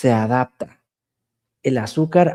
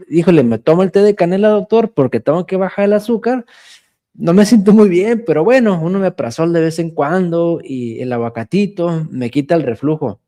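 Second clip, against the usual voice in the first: imitating a patient; 5 semitones higher than usual. Patient justifying cinnamon tea to the doctor, higher and whiny. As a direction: play the stubborn patient pleading with the doctor.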